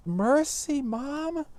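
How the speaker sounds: put-on very high, pleading girl's voice; high-pitched pleading daughter; pleading Juliet. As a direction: beg your mother like a desperate girl. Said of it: "Juliet turns to her and says".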